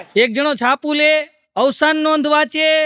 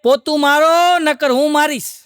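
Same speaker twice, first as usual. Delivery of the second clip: louder, higher bossy command; wife's order; 4 semitones higher, 4 dB louder, slower than usual. Retold or imitated. Wife ordering her husband to mop, louder command. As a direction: bark the order like a stern wife. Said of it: "એની ઘરવાળી કે".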